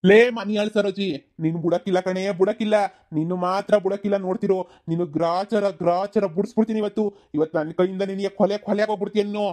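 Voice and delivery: furious brother storming in with a knife; angry shouting. Acted. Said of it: "ಇದ್ ಯಾಕ್ ಹಿಂಗ್ ಕೂಗಾಡ್ತಾ ಇದೀರಲ್ಲ".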